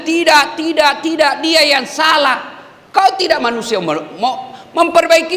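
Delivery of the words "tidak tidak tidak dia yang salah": mock denial. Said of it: "Yang kau malah bilang".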